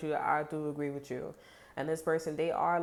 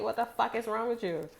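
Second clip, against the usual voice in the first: high-pitched mock yelling; mock outburst; 7 semitones higher than usual. Hothead yelling at a partner, high mock anger. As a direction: rant like you've lost patience. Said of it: "You know, like".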